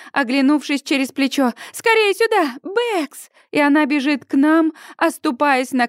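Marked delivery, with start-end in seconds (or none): 1.7-3.3 much higher, triumphant cry; excited shout. A narrator's reading. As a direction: shout the find back to the others. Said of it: "кричит Сьюзи".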